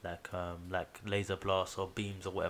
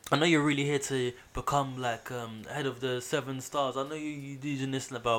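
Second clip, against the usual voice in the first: challenging rival; 4 semitones higher than usual. Acted. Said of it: "He's like".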